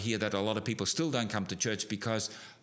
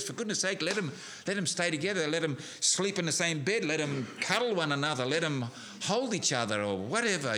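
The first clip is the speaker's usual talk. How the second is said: raised, fast indignant protest; upset outburst; 3 semitones higher than usual. Retold or imitated. Speaker retelling his outburst at the rules, indignant and raised. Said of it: "I got so upset with that".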